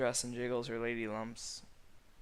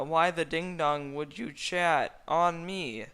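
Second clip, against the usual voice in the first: accusing shout; 6 semitones higher, 8 dB louder, slower than usual. A narrator's reading. Shrek accusing.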